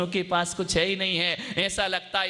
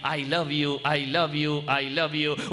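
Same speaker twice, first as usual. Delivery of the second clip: a slightly lower echo repeating it; mountain echo; 4 semitones lower, much slower than usual. Retold or imitated. The hills echo the child's love. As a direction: let it ring back. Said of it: "पहाड़ों से आवाज टकराई".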